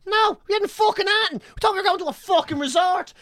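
high-pitched indignant protest; retold exasperation. Traveller with no supplies expecting a resort, retold exasperation. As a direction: act out outraged disbelief, voice pitched right up.

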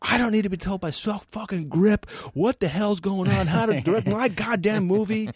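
high, mocking angry rant; angry director voice. Retold angry director via friend.

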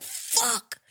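breathy whispered fuck; whispered swear of defeat; whispered curse. Retold or imitated. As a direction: mutter it under your breath, defeated. Defeated at the locked door.

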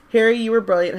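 squeaky. A narrator's reading. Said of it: "Hermione said squeakily".

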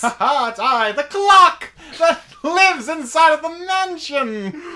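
creaky greedy chomping chest. Acted. Clock character introduces itself.

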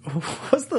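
put-on high, slow British accent. Host musing to co-hosts in high British accent. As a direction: wonder aloud in the high British voice. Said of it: "You use that accent for anyone British".

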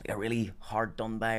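hushed, breathy actor gravitas; mock earnest whisper. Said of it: "some actors would go".

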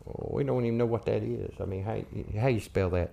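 low, soft, doubtful voice; puzzled musing. Retold or imitated. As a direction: mull it over quietly, mock puzzled. Retold puzzled reply about the name.

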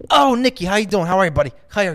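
loud, high-pitched gushing greeting; Sebastian Maniscalco. Retold or imitated. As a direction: imitate an over-friendly comedian greeting a buddy. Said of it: "talks exactly like Sebastian, Sebastian Maniscalco".

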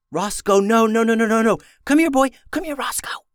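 frantic hushed pleading, rising; urgent loud whisper. A narrator's reading. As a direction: beg the dog to come, panicked. Ben desperately calls the dog.

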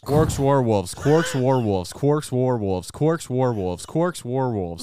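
tongue-twister repetition. Shown as a demonstration. Co-host takes a dare to repeat a tongue twister, steady chanting. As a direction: rattle off the phrase over and over in one rhythm. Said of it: "Say, uh, Quark's wa-, Warwolves three times".

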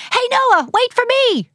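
high calling yell down the street; high excited child calling out. Acted. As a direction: call after your friend to wait. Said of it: "yelling out".

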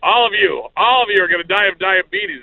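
loud, high mock shout; mock yell. Old neighbor yelling at the trick-or-treaters. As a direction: yell it at everyone like a cranky old man. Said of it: "start screaming it out loud".

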